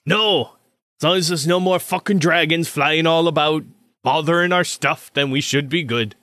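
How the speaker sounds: gruffly casual armorer character. Acted. Armorer grumbling about dragons to a departing recruit, animated. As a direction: wave off the offer with a grumble. Game master voices the surgeon.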